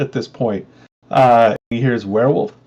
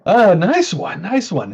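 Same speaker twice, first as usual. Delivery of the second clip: tail of laughter; 8 semitones higher, slower than usual. Acted. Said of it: "kind of it peters out".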